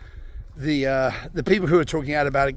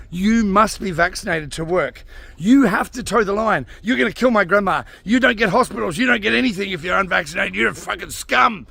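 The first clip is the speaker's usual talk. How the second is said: mocking Biden's government; 2 semitones higher than usual. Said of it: "who told everyone".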